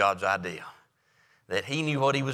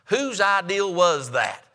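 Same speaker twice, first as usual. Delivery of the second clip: higher, slow, lightly voiced farmer; marvelling farmer; 7 semitones higher, 3 dB louder, slower than usual. Farmer asking the geese whose idea it was, slow and higher. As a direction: draw out the question in wonder.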